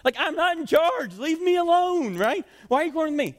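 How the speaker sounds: hammed-up exasperated pleading; mock exasperation. Moses voiced as exasperated with people.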